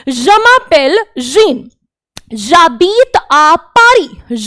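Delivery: very slow, each French syllable laid out; slow teacher demo in French; slow model sentence. Shown as a demonstration. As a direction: read it out slowly for the class to copy. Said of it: "ये person कह रहा है".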